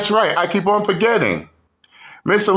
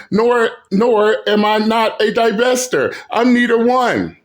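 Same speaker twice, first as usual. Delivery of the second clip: mocking impersonation; 4 semitones higher than usual. Mocking impersonation of Miss Elite.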